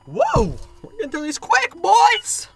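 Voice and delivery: excited cheer. Real, not acted. Cheers to viewers.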